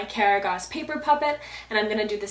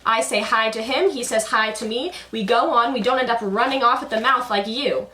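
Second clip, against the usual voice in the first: Karagos voice; 3 semitones higher, 6 dB louder than usual. Acted.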